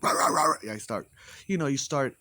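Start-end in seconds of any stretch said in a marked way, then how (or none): 0.0-0.7 louder meows to shut barking dogs up; loud meowing at dogs. Retold or imitated. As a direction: yowl back to show who's the alpha. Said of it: "I'm like".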